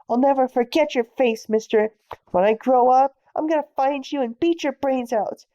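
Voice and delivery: yelling threats at a cop, loud; furious shout at the policeman; angry kid's yell. Acted. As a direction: shout it defiantly.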